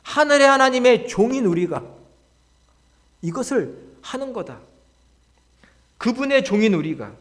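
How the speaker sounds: preacher's high, ringing announcement; proclamation of identity. Acted. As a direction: declare who you are with conviction. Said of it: "정체성을 선언합니다".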